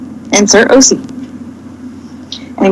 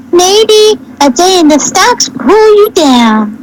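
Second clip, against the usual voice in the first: much higher, slow guard voice; threatening guard; 9 semitones higher than usual. A narrator's reading. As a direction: sneer it as the tall guard. Tall guard threatens captives.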